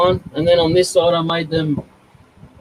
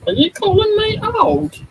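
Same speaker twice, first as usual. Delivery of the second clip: high, slow, drawn-out mock indignation; mock offended; slower than usual. Real, not acted. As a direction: play up being insulted, slow and high. Teased about being old.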